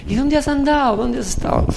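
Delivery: high-pitched storytelling character voice; chatty banknote. Retold or imitated. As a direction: ask it high, as a banknote greeting a friend. (voz aguda de billete preguntón)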